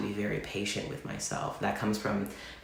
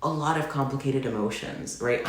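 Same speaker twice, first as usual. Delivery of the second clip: gentle, soothing self-talk, pitched higher; calming, soothing voice; 5 semitones higher than usual. Retold or imitated. To her hurting self, in a soothing, calming voice. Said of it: "in this calming, soothing voice".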